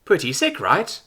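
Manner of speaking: a stoner android, totally relaxed but brash; bold chill bro. A narrator's reading.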